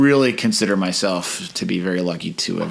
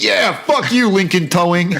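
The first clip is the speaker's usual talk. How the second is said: high, loud Chicago yell; angry Chicago yell; 9 semitones higher, 4 dB louder than usual. Retold or imitated. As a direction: tell off the towing company. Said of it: "I'm still so Chicago".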